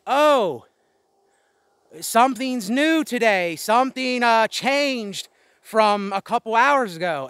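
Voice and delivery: high mocking singsong. Mocks people who don't understand.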